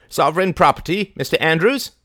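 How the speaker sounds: high, loud indignant cry; cried out. A narrator's reading. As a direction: cry it out to the bailiff. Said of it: "she cried".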